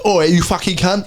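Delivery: a light knobhead lad voice, close to his own; lightly mock a cocky lad. Mates joking about his knobhead lad impression, lightly voiced. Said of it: "that's the voice I use for knobhead lads".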